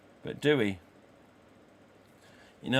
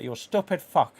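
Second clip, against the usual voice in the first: loud Tony Montana snarl, higher; a louder, higher mock gangster line; Al Pacino impression; 5 semitones higher, 6 dB louder than usual. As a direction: bark it like Scarface. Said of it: "what was it to say, Scarface?".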